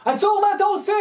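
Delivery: high, loud cry of alarm; retold shout. Bathhouse attendant catches the rabbi at the window, shouting. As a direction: yell at the intruder to stop. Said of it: "הבלן צועק לו".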